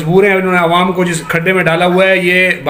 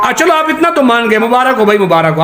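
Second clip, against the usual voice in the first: sarcastic cheer, pitched up high at the start; mocking congratulations; 3 semitones higher than usual. Debater mockingly congratulating his opponent, sarcastic. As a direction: congratulate him as if he had just lost.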